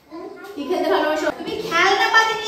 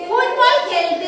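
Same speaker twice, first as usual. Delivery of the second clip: slow, clear and a bit firm; slow modelling; much slower than usual. Shown as a demonstration. Teacher prompts the child to say it aloud, slowly. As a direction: draw out each word for the child. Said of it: "জোরে বলো".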